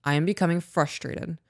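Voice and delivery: put-on slow, deliberate words to the kids; calm, measured statement. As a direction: spell out the feeling evenly, no heat. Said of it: "I will look and be like".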